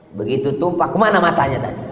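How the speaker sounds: acted sharp scolding, rising in force; mock irritated rebuke; scolding a wife. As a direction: play a husband telling off his wife. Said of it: "tapi dengan istri".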